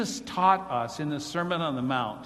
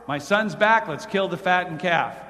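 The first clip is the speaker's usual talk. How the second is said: excited father; 5 dB louder than usual. Acted. Preacher voices joyful father.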